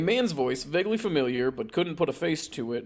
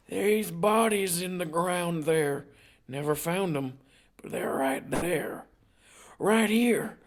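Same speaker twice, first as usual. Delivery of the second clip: grandfather voice; 4 semitones higher, slower than usual. Acted. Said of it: "voice of Faye's grandfather".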